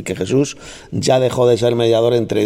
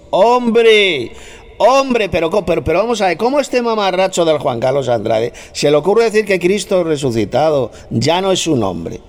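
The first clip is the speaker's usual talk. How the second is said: indignant outburst; 7 semitones higher than usual. Real, not acted. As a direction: burst out incredulous, then hurl the insults. Indignant tirade against a rival preacher.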